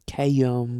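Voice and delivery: Cam with a slight southern drawl on the A; southern accent. Shown as a demonstration. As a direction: stretch Cam into two syllables, lightly southern. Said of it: "A little southern, 'cause I say".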